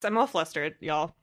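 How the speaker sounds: hoarse from a cold; croaky, congested cold voice; frog voice. Real, not acted. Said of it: "This frog voice".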